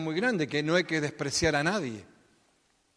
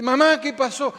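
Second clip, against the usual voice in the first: voz de niña; 8 semitones higher, 9 dB louder than usual. Pretend. Hija sanada habla a su madre.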